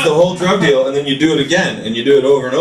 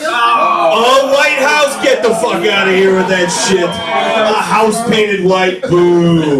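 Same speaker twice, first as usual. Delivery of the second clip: mock dismissal; 2 semitones higher, much slower than usual. Real, not acted. Mocks audience member's answer.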